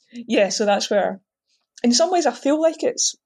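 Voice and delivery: eating while talking; talking through a bite of food; mouth full. Real, not acted. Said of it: "sorry, I'm eating while I'm doing this".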